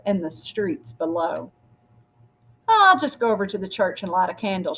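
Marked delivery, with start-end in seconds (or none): 2.7-4.8 said to herself. Acted. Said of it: "she said to herself".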